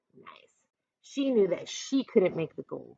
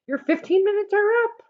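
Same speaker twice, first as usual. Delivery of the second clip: hollered; 12 semitones higher than usual. Acted. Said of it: "hollered Jake".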